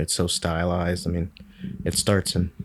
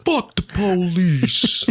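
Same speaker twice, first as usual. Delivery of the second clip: laughing; 10 semitones higher, much slower than usual. Real, not acted. Laughing quoting song.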